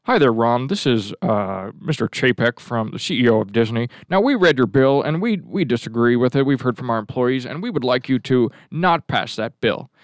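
lightly voiced company boss on the phone; Chapek. Disney boss asking the governor to drop the bill, lightly put-on executive voice. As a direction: put on a measured executive voice, not Southern. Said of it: "let's give him another voice".

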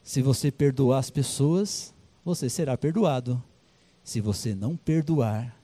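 Jesus concluding his parable, slow and solemn. Acted. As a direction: deliver the words of Jesus gravely. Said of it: "Ele falou assim".

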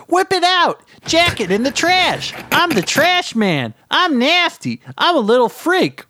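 high, frenzied trash-man yell; ranting trash creature. A narrator's reading. Trash man goads the man above, frenzied yell. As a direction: shriek demands like a depraved gremlin.

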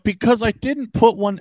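mildly irritated mock comeback; a little edgy. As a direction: imitate a friend getting defensive. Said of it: "you were getting a little edgy".

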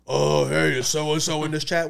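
exaggerated high, loud girl voice; Riley. Demonstrating the daughter's voice for the co-hosts, hammed-up high and loud. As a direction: ham up a silly kid impression. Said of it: "I'm gonna do Riley's voice".

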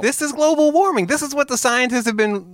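very high mock eureka; giddy, hammed-up breakthrough; excited revelation. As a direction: announce the great discovery in a soaring voice. Mock celebration of solving it.

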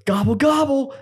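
high mock gobble, turkey style; hammed-up turkey call. Friend yells while lifting buddy.

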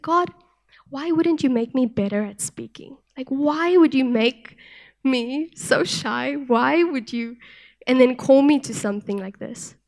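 mildly frustrated plea, slowing on the questions; retold frustration. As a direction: replay an old complaint to God, understated. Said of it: "I was frustrated with God".

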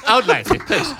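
mock Cockney accent, pleading politely; hammed London accent for a comic plea; Michael Caine. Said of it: "in your Michael Caine accent".

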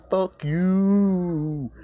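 high, loud, drawn-out retort; exasperated high-pitched retort; indignant outburst. Acted. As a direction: throw it back loudly and high. Retort to the absent author.

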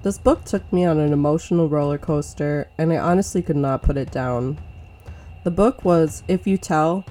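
measured, grave storytelling read; true crime narrator. A narrator's reading. Podcast cold open read.

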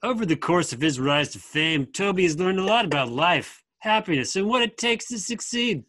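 lightly performed surfer read; a hint of surfer dude. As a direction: read it like a surfer, lilting upward at times. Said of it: "I wanna hear your best surfer voice".

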